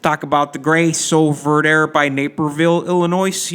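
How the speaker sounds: lightly put-on Chicago accent. Shown as a demonstration. Podcast host shows listeners his Chicago bit, light Chicago accent. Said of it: "I try to do a Chicago accent".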